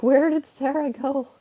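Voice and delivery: put-on high, slow, childlike pleading; high childlike "Sarah sensei, doko?"; kids missing their teacher. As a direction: voice the students calling for their teacher. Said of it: "they're just like".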